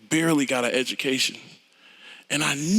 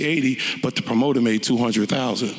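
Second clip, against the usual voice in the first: normal talking voice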